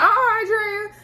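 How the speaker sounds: loud, high "oh" of alarm; exclaiming to Andrea. Pretend. Vlogger cries out to the girlfriend on screen, high and loud. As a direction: call out to stop her.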